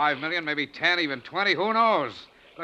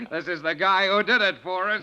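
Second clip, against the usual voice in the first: laughing; 3 semitones higher than usual. Acted. Celebrating the treasure find.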